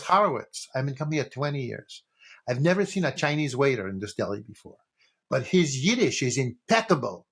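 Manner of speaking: put-on joke-teller's light Yiddish accent. Schwartz praising the waiter to Horowitz, in a Yiddish accent. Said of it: "I'm gonna do the fucking accent".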